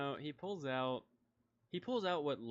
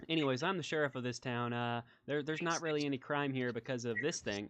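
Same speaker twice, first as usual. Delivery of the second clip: lightly voiced lawman, a bit louder; hint of a chatty sheriff showing off; folksy small-town sheriff; 6 dB louder than usual. Sheriff introducing himself to visitors, lightly folksy.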